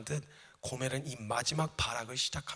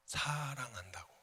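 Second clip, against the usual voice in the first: soft echo; 3 semitones lower, 6 dB quieter, slower than usual. Real, not acted. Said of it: "preacher echoes the command".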